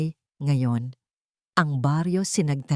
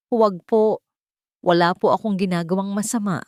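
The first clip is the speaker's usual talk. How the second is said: frightened, pleading, louder at first; trembling plea; 3 semitones higher, 3 dB louder than usual. Acted. Cornered woman begs the men, trembling. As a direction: beg them to stop, voice trembling. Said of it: "nanginginig niyang sabi".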